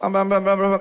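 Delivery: quick high mumbled "bam" syllables; imitated chatter to mum. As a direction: babble nonsense as stand-in for a conversation. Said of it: "Dia ngomong sama ibunya". (tiruan celoteh anak ke ibunya)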